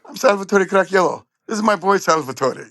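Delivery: lightly voiced Italian father presenting his son; retold proud dad. Dad introduces himself and son.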